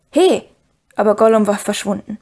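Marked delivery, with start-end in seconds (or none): 0.1-0.4 Sam's sudden shout. A narrator's reading. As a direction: call out sharply to stop him. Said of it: "von Sams Geschrei wach geworden".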